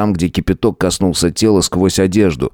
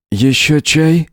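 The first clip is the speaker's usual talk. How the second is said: Howard's voice; 9 semitones higher, slower than usual. A narrator's reading. Howard offers tea to guest.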